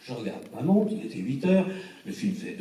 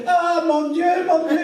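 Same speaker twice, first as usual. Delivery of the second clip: very high, loud mock wail; mock dismay; 8 dB louder, slower than usual. Renate despairing over the casting, high loud mock wail. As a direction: shriek it like a horrified lady.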